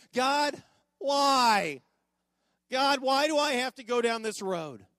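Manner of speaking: high, loud pleading wail; loud desperate complaint to God; anguished cry. Retold or imitated. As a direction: cry out to heaven in frustration.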